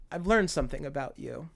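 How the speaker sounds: soft, compassionate acted line; tender reassurance. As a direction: speak gently to a hurt child. Acting vampire's tender line to child.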